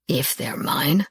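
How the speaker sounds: low, slow and firm; firm possessive answer. A narrator's reading. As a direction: set it down firmly, slowly. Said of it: "he said in a firm voice".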